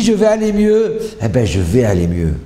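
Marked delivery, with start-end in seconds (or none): 0.0-1.0 high, loud proclamation; ringing, high-pitched cry of belief; emphatic declaration. Shown as a demonstration. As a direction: belt out the affirmation with full conviction. Demonstrating forceful positive affirmation.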